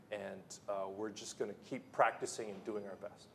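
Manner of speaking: lightly voiced, low-key athlete droning clichés; a hint of a flat post-game athlete; bland athlete. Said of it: "The athlete said".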